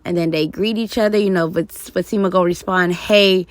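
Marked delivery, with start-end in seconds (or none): 2.9-3.4 imitating a small, raspy voice; Chris. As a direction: lightly put on a little raspy "hey". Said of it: "the little small, soft, raspy voice Chris will do".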